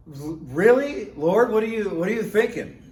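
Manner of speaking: asking God what He's doing, shocked; stunned disbelief. Retold or imitated. Shocked reaction to arrest.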